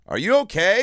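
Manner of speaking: high, worried call; concerned onlooker. Retold or imitated. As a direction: ask from down the hall, concerned. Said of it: "somebody ... just goes".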